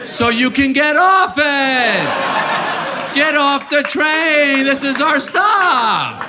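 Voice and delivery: high, slow, drawn-out mock parent; mock parent announcing stop. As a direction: stretch it out, high and silly, like a parent herding kids off. Mocking logic, parents at stop.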